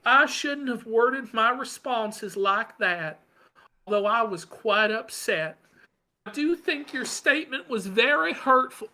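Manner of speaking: a hint of a sulky apology; mocking Ralph. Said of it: "He goes".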